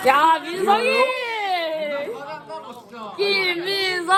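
drawn-out calling of a name. Real, not acted. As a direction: stretch the name out long, calling. Calling friend's name across room. (길게 늘여 이름 부르기)

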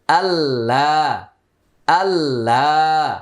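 আল্লাহ held long, merged l without nasal; drawn-out Allah. Shown as a demonstration. Teacher modelling Allah with idgham, slowly. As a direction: stretch আল্লাহ slowly for the class. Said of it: "ইদগামি বিলা গুন্না".

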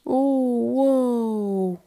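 thrilled with the new bed; amazed wow. Acted. Kid amazed by own bed. (انبهار بالسرير الجديد)

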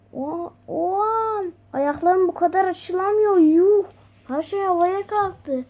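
high astonished exclamations. Acted. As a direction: react to sudden floating. Toys suddenly floating.

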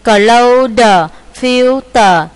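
"Clothed, filled" with the final d released as an extra beat; model ed endings. Shown as a demonstration. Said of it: "Đằng sau chữ tờ đờ đọc là it". (đọc to, bật rõ âm cuối "Clothed, filled")

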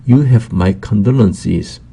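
very slow, every word laid out; slow, careful example sentence; slow model reading. Shown as a demonstration. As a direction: read it slowly for learners to copy. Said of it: "model sentence read slowly".

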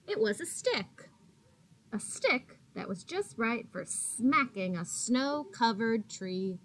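gentle, expressive read-aloud voice; reading to children. A narrator's reading. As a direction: read it like a picture book for little kids. Teacher reading picture book aloud.

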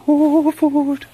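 a starving cat dreaming of dinner; high squeaky food-crazed cat; voicing the hungry cat. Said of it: "pretty anxious about just like".

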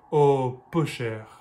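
mock pity, dropping off on the last words; sarcastic sympathy. Shown as a demonstration. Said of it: "if you're being sarcastic".

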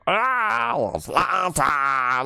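very high-pitched creature cry; Gizmo. Acted. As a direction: squeal it drawn out, far above your own voice. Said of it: "Like a, a, the Gizmo".

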